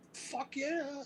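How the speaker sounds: high enthusiastic shout; eager yes. Retold or imitated. Band agreeing he can sing backup, high excited shout. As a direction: jump at the offer.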